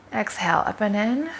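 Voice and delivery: soft, unhurried breathing cues with long pauses; guided breathing. Real, not acted. Coach guiding expectant mothers through pelvic floor breaths, soft guided breathing. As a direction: quietly lead them through each breath, leaving room to breathe.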